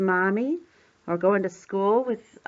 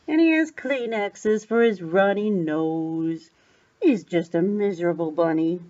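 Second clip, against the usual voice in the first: gentle sympathy. Acted. Sympathy for a sad sick bunny.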